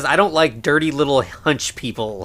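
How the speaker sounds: usual speaking voice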